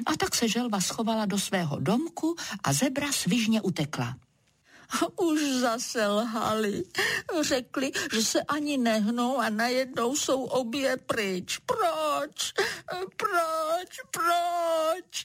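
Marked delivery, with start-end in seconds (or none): 5.2-15.3 high tearful repeated why; crying cloud. Acted. Little cloud crying at the turtle and zebra, high and tearful. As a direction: sob the questions, hurt, higher. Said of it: "Zaplakal nešťastný".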